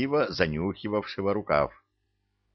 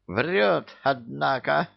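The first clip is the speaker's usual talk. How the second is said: indignant; 7 semitones higher, slower than usual. Acted. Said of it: "возмутился Акира".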